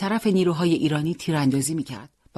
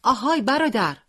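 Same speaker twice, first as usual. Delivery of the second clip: calls out high and loud; shouting; 7 semitones higher, 3 dB louder than usual. Acted. Boy warns a fighter of the tank, calling out. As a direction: hail a fellow fighter down the alley. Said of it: "داد زد".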